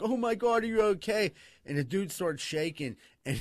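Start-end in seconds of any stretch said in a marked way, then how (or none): 0.0-1.3 mock concern. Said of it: "They're like".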